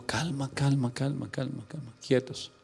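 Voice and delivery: soft, hushing repetition; acted calming. David restraining his men from killing Saul, softly calming. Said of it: "Y él les dijo".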